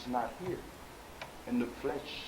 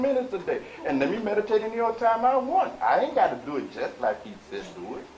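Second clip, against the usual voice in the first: mock stubborn follower; 3 semitones higher, 6 dB louder than usual. Teacher mimics a student making excuses about meditation, mock stubborn follower. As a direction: start offhand, then climb into a mock defiant protest. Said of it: "When you have this kind of mindset".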